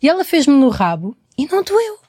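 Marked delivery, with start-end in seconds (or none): 1.4-2.0 high, amazed disbelief; surprised. Retold or imitated. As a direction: sound amazed it didn't hurt. Espanto por não doer. (espanto agudo, incrédula)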